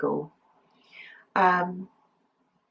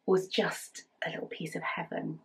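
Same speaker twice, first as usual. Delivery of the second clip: soft whisper; 10 dB quieter than usual. Real, not acted. Nostalgic about Jackanory.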